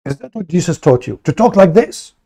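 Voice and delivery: hammed-up scolding, climbing up; mocking Muslim voice. Streamer mimics Muslims scolding him for "this", mock outrage. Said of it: "They say to you".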